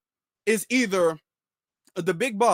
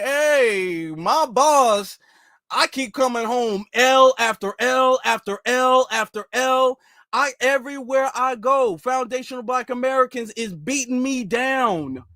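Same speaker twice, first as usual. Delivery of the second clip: drawn-out mock complaint to the boss; a rapper; 3 semitones higher, slower than usual. Defeated henchman reporting losses to his boss, hammed-up lament. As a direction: imitate a beaten henchman's woeful report, pushed slightly higher. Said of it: "the rapper is all like".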